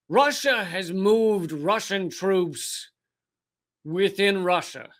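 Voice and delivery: slowly spelling out each word; deliberate, slow statement; slow emphasis. Shown as a demonstration. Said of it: "Say it slowly to yourself".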